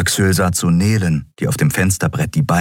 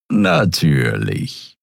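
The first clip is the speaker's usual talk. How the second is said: Suran voice; much slower than usual. A narrator's reading.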